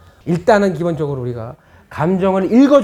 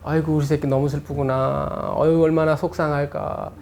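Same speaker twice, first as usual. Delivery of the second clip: tender comfort; 3 semitones lower, 4 dB quieter than usual. Shown as a demonstration. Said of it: "이것만 해줘도 돼요".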